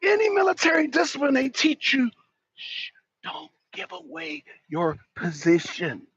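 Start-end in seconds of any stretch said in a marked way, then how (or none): 2.5-6.1 much lower, much softer slow hush; quiet. Shown as a demonstration. Teaching military discipline, a slow hushed warning. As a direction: hush it like a drill instructor. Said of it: "I'm saying it quietly".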